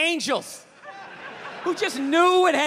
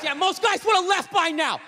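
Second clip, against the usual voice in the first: dad's catchphrase; 5 semitones higher than usual. Retold or imitated. Dad catchphrase shouted.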